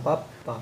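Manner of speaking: পাপ্পা said with a doubled p; পাপ্পা voiced as a triple tap; pronounce the bol. Shown as a demonstration. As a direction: snap পাপ্পা as three quick strokes. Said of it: "তিনটা টোকা হবে".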